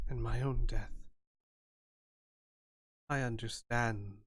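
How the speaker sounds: lightly voiced spirit, measured and halting; understated, grave otherworldly advisor; solemn spirit fortune-teller. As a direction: counsel gently with long pauses.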